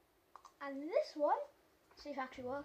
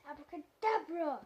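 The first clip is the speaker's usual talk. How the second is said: put-on kids party magician; 6 dB louder than usual. Kid magician casting spell again.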